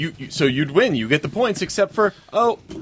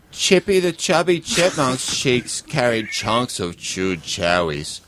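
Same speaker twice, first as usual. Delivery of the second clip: put-on baby talk; 2 semitones lower than usual. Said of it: "Speak like you're talking to a little baby".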